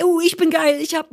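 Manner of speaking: high-pitched acted self-adoration; mock hysteria, elated. Author imitating the proud side of premiere nerves, hysterically elated. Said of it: "ich hatte von beiden die Hysterie".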